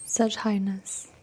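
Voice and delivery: slow, soft Doge meme voice. Pretend. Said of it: "They try to do the Doge meme".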